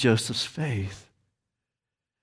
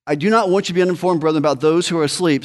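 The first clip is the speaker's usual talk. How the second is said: fired-up reading; 4 semitones higher, much faster than usual. Real, not acted. Preacher reading scripture to congregation, fast and fired up. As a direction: drive the verse out with urgency. Preacher reads verse with rising force.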